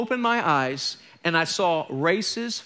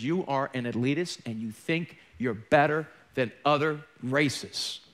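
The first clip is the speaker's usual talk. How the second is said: the Lord's rebuke; 3 semitones lower than usual. Retold or imitated. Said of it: "and the Lord showed me".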